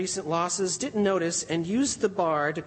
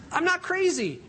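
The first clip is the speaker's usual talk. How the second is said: high, mildly spat protest; a touch of angry spitting; mild spat retort; 11 semitones higher than usual. A narrator's reading. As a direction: snap back, hurt. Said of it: "Job spat".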